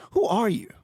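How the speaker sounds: whispered suspicious demand; a suspicious innkeeper whispers who are you; hissed question. Acted.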